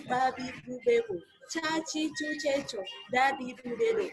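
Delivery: slow, evenly spaced syllable practice; deliberate diction exercise, syllable by syllable; articulation drill. Shown as a demonstration. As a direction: sound out each consonant-vowel syllable distinctly. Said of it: "Udah ayo tuh pindah".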